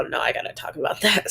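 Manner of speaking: breathy laugh through the words; laughing whisper. Retold or imitated. Retold own excited thought.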